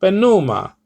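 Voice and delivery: "pneuma" with the pitch lifted on NOO, then falling; "pneuma" accented on the second syllable. Shown as a demonstration. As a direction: raise the tone on the middle of puh-NOO-ma in "pneuma". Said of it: "the tone of your voice".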